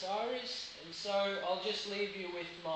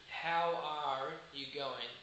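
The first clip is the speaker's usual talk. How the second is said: Australian accent; 2 semitones lower, slower than usual. Shown as a demonstration. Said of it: "in here we say".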